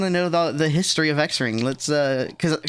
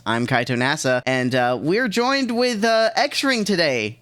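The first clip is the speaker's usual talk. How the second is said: podcast host intro. Acted. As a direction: announce the show like a podcast host.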